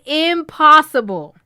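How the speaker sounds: man turning down a money request, loud; flat refusal. Retold or imitated. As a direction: shut her down hard. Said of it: "The man replied".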